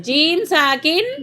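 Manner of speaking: "जीम साकिन" drawn out slowly, each sound clear; slow correcting demo. Shown as a demonstration. Teacher correcting a child who keeps saying meem, slow and clear. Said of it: "मीम साकिन।".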